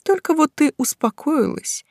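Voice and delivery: loud, emphatic lecturing; passionate witch mentor. Acted. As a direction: rouse her to set herself free. (горячая наставница)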